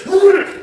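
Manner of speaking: high-pitched mimicked noise; mock high "mm" of his cellmate; imitated grunt. Imitates Billy Bob's odd noise.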